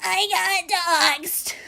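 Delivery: slow, soft mock-sobbing whimper; mock crying. Streamer mocking doxxing complaints with slow fake crying. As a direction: fake a weepy little complaint. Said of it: "I'm not gonna start crying here saying".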